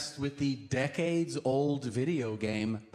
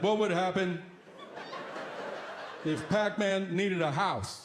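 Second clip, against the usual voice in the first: put-on curious kid; 5 semitones higher than usual. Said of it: "He's like".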